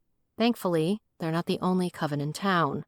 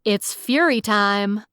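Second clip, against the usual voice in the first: slow, louder heroic proclamation; slow, louder heroic catchphrase; superhero voice; 2 semitones higher, 5 dB louder, slower than usual. Acted. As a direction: boom it out like a caped hero making an entrance. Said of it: "mustered my best superhero voice".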